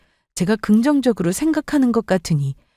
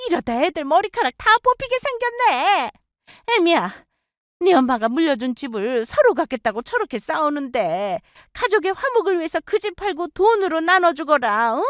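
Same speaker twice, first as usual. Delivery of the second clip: put-on higher, wheedling older woman; coaxing mother-in-law; 8 semitones higher than usual. Mother-in-law urging daughter-in-law to sell the house, coaxing.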